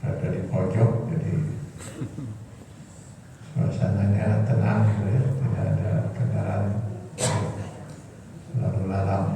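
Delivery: muffled behind a mask; through a face mask. Real, not acted. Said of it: "Mohon maaf saya pakai masker".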